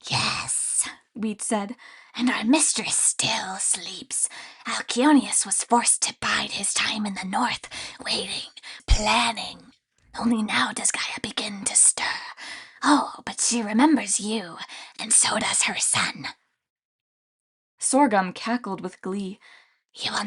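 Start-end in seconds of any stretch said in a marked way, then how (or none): 0.1-0.9 sinister whispering creature voice; creepy grain spirit whisper. Acted. 2.1-16.3 sinister whispering creature voice; creepy grain spirit whisper. Acted.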